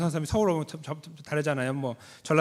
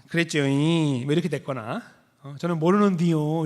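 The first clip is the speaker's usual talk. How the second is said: Jeolla dialect. Retold or imitated. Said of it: "만약에 전라도식이라 하면".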